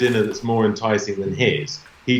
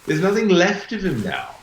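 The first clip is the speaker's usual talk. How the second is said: laughing; 7 semitones higher than usual. Real, not acted. Laughs at cannibal question.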